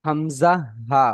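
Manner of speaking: হামজা হা drawn out slowly, throat sound held clearly; letter demo. Shown as a demonstration. Teacher showing students the first makhraj, slow careful demo. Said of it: "এক নম্বর মাখরাজ হলো".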